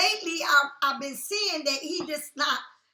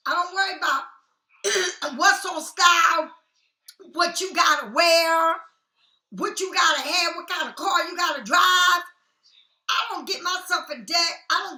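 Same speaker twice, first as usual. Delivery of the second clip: defiant rant; 5 dB louder than usual. Real, not acted.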